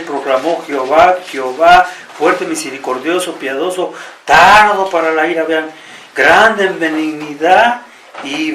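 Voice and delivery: solemn Bible reading that slows and softens toward the end; scripture reading. Acted. Preacher reading Exodus to the church, solemn and measured. Reads Exodus aloud to congregation.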